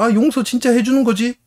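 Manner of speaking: 끝까지 높게 올려 묻기; 기대에 차서 높은 목소리로 확인; 확인하는 아이 흉내. Retold or imitated. 아이가 재차 확인하는 장면. (보채는 꼬마 말투)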